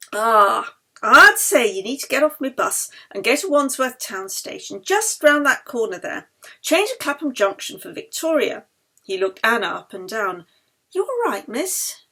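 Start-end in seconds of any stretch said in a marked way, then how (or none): 0.1-8.6 loud, breezy London conductor; bus conductor. Acted. Bus conductor teases Yeli's accent, loud and breezy. 10.9-12.0 high, kindly check-in; concerned conductor. Acted. Bus conductor asks coughing Anna if she is all right.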